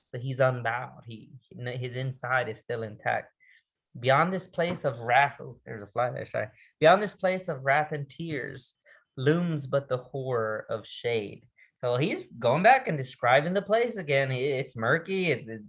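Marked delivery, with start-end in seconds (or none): 4.0-5.4 slow, deliberate quoted line; measured recitation; poem recital. Acted. 6.8-11.5 slow, deliberate quoted line; measured recitation; poem recital. Acted.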